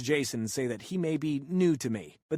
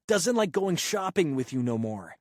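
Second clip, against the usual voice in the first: exploding at mom; 5 semitones higher, 4 dB louder than usual. Retold or imitated. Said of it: "son finally has enough and explodes".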